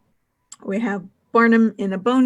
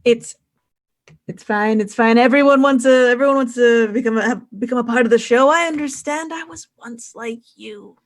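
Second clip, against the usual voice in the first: Barnum; 3 semitones higher, 4 dB louder than usual. Acted. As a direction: start insistent and high, end hushed and confiding. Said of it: "he says, while spitting out just a little bit of blood".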